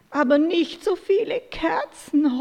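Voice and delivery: a hint of an owl's wail; howling owl. A narrator's reading. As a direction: owl complaining about too many candles. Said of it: "heulte die Eule".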